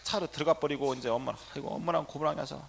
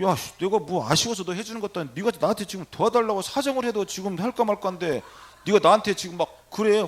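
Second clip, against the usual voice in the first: indignant scolding, pitched up; angered retort; 4 semitones higher, 6 dB louder than usual. Retold or imitated. Priest to the rude young patient begging his help, angered. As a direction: tell her off, pushing louder toward the end. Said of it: "화가 나는 거야".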